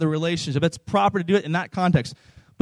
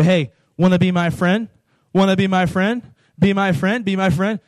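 pushy and overbearing. Acted. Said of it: "You're just being really pushy about this".

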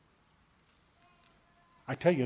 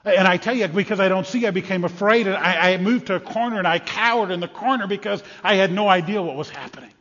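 raised, urgent frightened account; agitated fear; 3 semitones higher, 4 dB louder than usual. Acted. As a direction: tell it as if surrounded by chaos. Frightened man cowers amid chaos.

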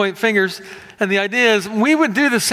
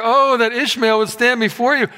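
Abraham pleading; 4 semitones higher than usual. Retold or imitated. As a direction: beg God to accept the son he has. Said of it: "And he says here".

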